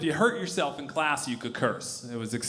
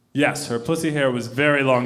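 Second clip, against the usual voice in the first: a touch of sincerity, lower and deadpan; earnest confirmation to the kids, mildly sincere; mock sincere; 6 semitones lower than usual. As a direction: say it with a straight, earnest face. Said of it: "said as sincerely as I could".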